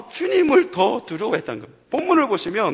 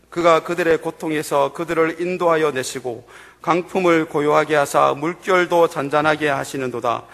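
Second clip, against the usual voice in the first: lower, steady reading of the Psalm; scripture reading; 7 semitones lower than usual. Real, not acted. Pastor reading Psalm 107 with the congregation, steady. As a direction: read the verses evenly aloud.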